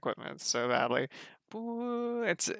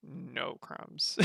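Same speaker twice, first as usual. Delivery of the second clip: softer whispered No crumbs; quiet awed verdict; 5 dB quieter than usual. Real, not acted. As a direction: hush it in awe. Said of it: "No crumbs were left on the table".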